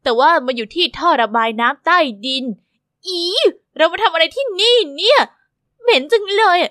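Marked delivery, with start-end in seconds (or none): 3.8-6.6 grossed out by the smell; disgusted. Acted. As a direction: squeamish complaint. In a stinking sewer.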